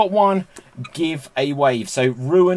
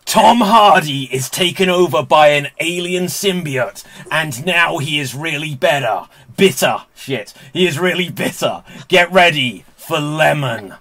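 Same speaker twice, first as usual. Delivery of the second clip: louder, dramatic trailer narrator; movie trailer voice; 4 dB louder than usual. Acted. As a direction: hype it like a blockbuster trailer. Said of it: "movie trailer guy voice".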